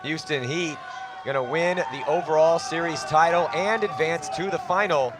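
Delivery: play-by-play. Real, not acted. Commentator calling the last seconds of the match, urgent play-by-play. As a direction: drive the call as the clock runs out. Live play-by-play of final push.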